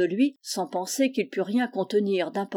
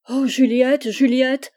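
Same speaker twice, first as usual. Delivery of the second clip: loud, raised cry of distress; tearful outcry; 4 semitones higher, 7 dB louder, slower than usual. A narrator's reading. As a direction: cry out her name, acting overcome. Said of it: "s'écria Charles en sanglotant". (cri éploré, fort et aigu)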